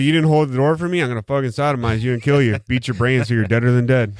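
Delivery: a hammed-up murderer losing it over nothing; mock psycho killer rant. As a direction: ham up a killer snapping over a door. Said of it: "He's like".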